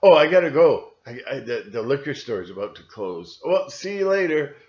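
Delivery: loud, hammed-up excuse to leave; dismissive brush-off. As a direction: brush the friend off loudly and hurry away. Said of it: "And you go".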